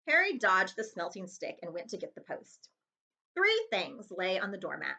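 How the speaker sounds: plain reading voice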